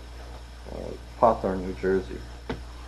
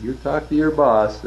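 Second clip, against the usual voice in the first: slower, higher retold command; insistent order; 6 semitones higher, 4 dB louder than usual. Armed customer orders the factory rep, retold insistent demand. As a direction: press the order home, mildly menacing.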